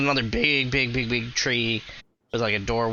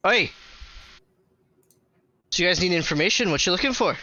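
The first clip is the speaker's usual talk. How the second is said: fast, higher, brisk dwarf voice; hearty dwarf asking quickly; 5 semitones higher, much faster than usual. Acted. Dwarf greets the party, brisk and fast. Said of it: "The dwarf turns to you guys and goes".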